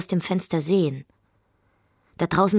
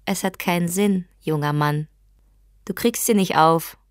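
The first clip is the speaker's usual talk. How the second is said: louder, taunting call through the door; 5 dB louder than usual. Acted. Wife calling out to her husband through the locked door, taunting.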